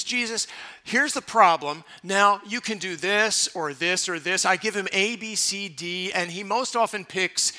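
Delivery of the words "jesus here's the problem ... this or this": bossy prayer. Retold or imitated. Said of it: "I like to say to Jesus".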